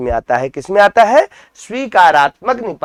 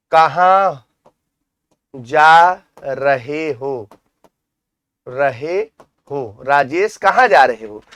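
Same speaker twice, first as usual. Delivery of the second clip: asking a question; 3 semitones lower, slower than usual. Shown as a demonstration. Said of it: "मैंने कहा, प्रश्न किया".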